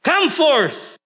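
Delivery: high, drawn-out call into the tomb; Jesus shouting at the tomb for Lazarus to come out, high and drawn out; commanding shout. Retold or imitated. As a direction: call the dead man out, stretching his name. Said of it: "Tapos siya ay sumigaw".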